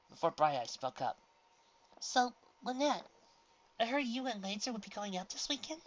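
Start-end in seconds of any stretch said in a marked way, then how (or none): 2.0-5.8 cold. A narrator's reading. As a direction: ask it coldly. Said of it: "said coldly".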